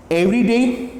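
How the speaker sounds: एवरीडे said clearly with an open ए at the start; teacher models एवरीडे syllable by syllable; careful pronunciation. Shown as a demonstration. Teacher modelling एवरीडे for exam preparation. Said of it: "ये एवरीडे का transcription है".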